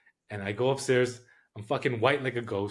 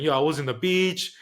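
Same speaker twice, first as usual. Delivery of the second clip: a hammed-up boast, higher and louder; imitating Al bragging; 6 semitones higher, 7 dB louder than usual. Al bragging to the narrator about volleyball in Brazil, mock boastful. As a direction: play Al showing off his beach volleyball skills. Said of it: "'cause Al was saying".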